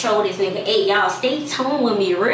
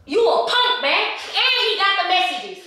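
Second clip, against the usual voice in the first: high-pitched put-on outrage; staged accusation; 9 semitones higher than usual. Prankster confronting partner about messages, indignant.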